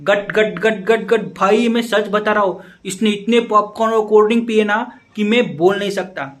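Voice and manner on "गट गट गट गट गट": gulping noise. Retold or imitated. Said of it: "ऐसे पी रहा था मानो कि कोई भैंस".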